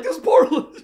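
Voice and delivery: high pitying voice breaking into a laugh; high, laughing mock sympathy. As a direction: coo over the poor lamp, laughing. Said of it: "You gotta be like".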